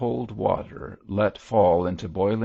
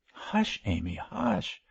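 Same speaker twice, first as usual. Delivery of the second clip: soothing hush. A narrator's reading. Bishop calming his excited wife, soothing. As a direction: hush her gently. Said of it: "trying to soothe her excitement".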